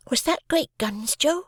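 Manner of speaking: put-on a small boy asking in wonder, slowly; young boy Pip. A narrator's reading. Boy Pip asks Joe.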